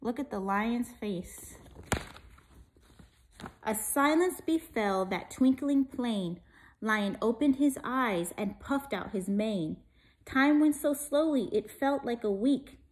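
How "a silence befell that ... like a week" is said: put-on lively rhyming read-aloud for kids; story reading. A narrator's reading. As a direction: read it like a bedtime picture book. Reads rhyming picture book.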